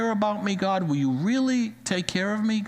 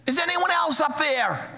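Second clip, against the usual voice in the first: much higher, incredulous punchline voice; doubtful dangling man; 10 semitones higher than usual. Retold or imitated. Dangling man asks if someone else can help, high and incredulous. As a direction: ask it with comic disbelief. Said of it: "And the guy looks up and says".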